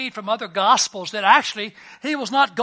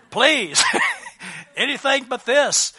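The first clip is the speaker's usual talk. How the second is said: mock desperate plea; 7 semitones higher, 6 dB louder than usual. Voices Peter begging to leave boat.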